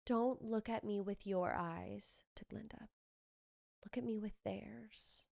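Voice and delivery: soft, slow, intense delivery; Elphaba quote. Retold or imitated. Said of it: "where Elphaba says".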